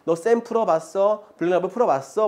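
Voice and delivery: mock bragging student; lightly hammed-up boasting; boastful. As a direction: imitate a show-off quizzing classmates. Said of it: "막 이렇게 자랑하잖아요".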